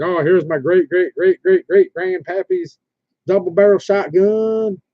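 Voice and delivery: lightly put-on Southern accent, drawn out toward the end; mock Southern voice. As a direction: imitate someone laying on a Southern accent. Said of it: "they always get that Southern voice".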